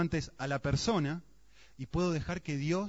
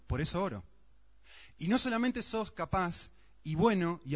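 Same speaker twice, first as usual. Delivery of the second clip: higher, louder pleading prayer to God; fervent prayer; 4 semitones higher, 3 dB louder than usual. Acted. Preacher acts out his own prayer, fervent and raised. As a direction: cry out to God with conviction. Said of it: "es gritando".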